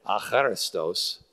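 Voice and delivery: "Acharistos" with the stress on "cha"; corrected syllable stress. Shown as a demonstration. Teacher repeats the Greek word properly, "Acharistos" stressed on "cha". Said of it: "get the emphasis on the right syllable".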